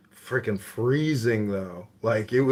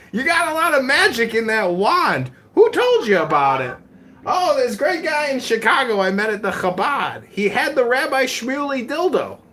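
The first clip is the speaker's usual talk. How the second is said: mock dad voice; 11 semitones higher, 4 dB louder than usual. Dad and son voiced exchange.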